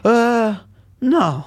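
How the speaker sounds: a sheepish laugh breaking out high; embarrassed laugh. Real, not acted. Asked if he is bilingual, he answers with an embarrassed laugh. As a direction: laugh it off, caught out.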